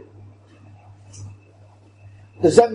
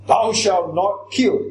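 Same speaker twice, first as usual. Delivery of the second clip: slow, firm weight on NOT; "not" stressed with slow deliberate force; commandment-like emphasis; slower than usual. Shown as a demonstration. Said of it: "Same kind of strength".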